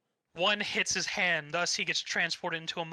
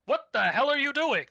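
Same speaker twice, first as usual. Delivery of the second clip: higher, mock outraged villain; 8 semitones higher, 5 dB louder than usual. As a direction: ham up the baffled king's outrage. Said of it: "Vern being like".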